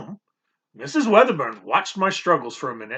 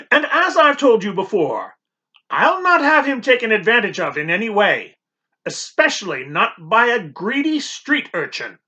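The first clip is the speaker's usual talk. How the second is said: a stern housekeeper warning, higher and louder; 5 semitones higher, 4 dB louder than usual. Acted. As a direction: warn off the street urchin. Housekeeper warns the boy.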